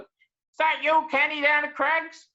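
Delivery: high, slow call across the yards. Retold or imitated. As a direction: hail him from far away, drawn out. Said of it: "someone yells out".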